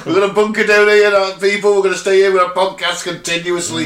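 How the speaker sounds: mock emergency orders. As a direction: bark orders like a crisis. Mock bunker-down announcement.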